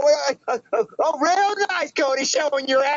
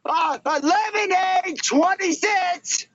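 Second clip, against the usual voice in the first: drawn-out hawker cry, a bit higher; street vendor call; 5 semitones higher, much slower than usual. Acted. Kid hawking lemonade to passers-by, slow sing-song call. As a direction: call out the price slowly like a street seller.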